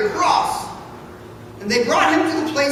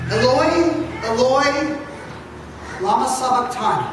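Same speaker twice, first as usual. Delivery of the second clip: a slightly raised anguished call; loud cry. Acted. Jesus calls out to God from the cross, a mild anguished cry. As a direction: call out the Aramaic with a touch of anguish. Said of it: "cried out in a loud voice".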